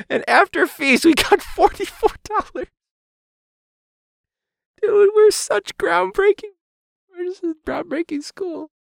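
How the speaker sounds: high, dripping sarcasm; sarcastic. Real, not acted. Teacher mocking his school's result, high sarcasm. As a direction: sneer it in a high voice. Sarcastic rant about the total.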